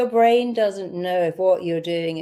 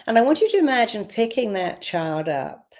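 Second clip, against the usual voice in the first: guided meditation. Acted. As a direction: talk them gently into the memory. Closing visualisation.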